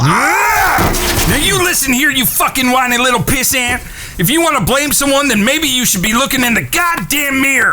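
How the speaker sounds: shouting. Acted. Frank yells at Henry.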